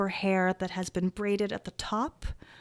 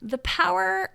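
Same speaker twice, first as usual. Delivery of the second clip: whisper; 3 semitones higher, much slower than usual. Acted. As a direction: whisper it with menace. GM dramatic whisper.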